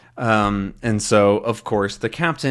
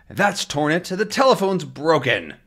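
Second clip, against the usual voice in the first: voiced Tintin; 6 semitones higher than usual.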